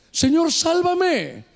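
Señor, sálvame drawn out slowly; slow plea. Shown as a demonstration. (súplica lenta y pausada)

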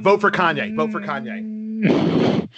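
mild coaching call, drawn out at the end; mock yell. Dad coaching his son to heckle sign holders, mock yell. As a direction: demonstrate a yell, stretching the last cheer. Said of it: "I want you to yell at them".

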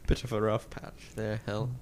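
put-on British understatement; British accent. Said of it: "I didn't know you were British".

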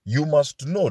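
must said firmly; stress on must. Shown as a demonstration. Preacher pressing must on the congregation. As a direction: lean on the word must. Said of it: "Must is the key word".

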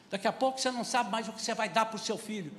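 ordinary talk

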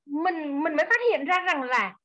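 ordinary talk

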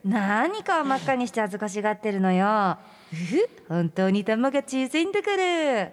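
giggly, condescending tease; mocking. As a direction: belittle him with a little titter. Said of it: "バカにしてるところ".

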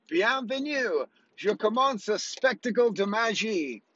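high, slow, put-on French accent; hammed-up French magician. Shown as a demonstration. Magician greeting his audience, in a hammed-up high French accent. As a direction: greet them like a showy French magician, stretching every word. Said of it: "I did another show in French today".

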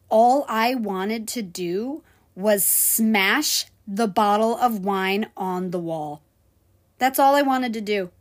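a server telling how badly she wanted to smash the bottle, slow and angry; remembered rage. Real, not acted. With held-back anger. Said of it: "I felt so much rage in me".

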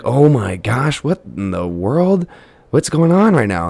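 rising, shocked oh my gosh; can't believe what you're seeing; startled disbelief. Retold or imitated. Waking at night to kids being sick, startled.

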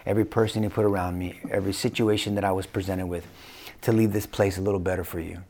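put-on low, softening goodbye to the kids; tender farewell. Dying father to his kids and grandkids, tender farewell.

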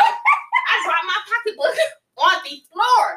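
slow, laughing through the words. Real, not acted. Laughing as she tells her friend the story. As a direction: let the laugh spill into the line.

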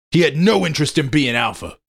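high, loud angry shout. Acted. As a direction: keep shouting at him. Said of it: "I shouted".

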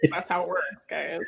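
sarcastic whisper to the audience; whispered aside. Real, not acted. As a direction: whisper it like a secret joke.

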